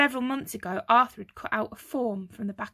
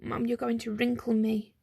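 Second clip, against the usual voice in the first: whimpered. Acted. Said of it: "Stanley whimpered".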